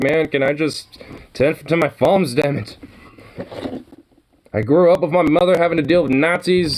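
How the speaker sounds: a hint of an Irish lilt, venting high; Irish accent. Fed-up villager griping about wars and farms, mild Irish accent. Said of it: "starting to get a little Irish accent with that".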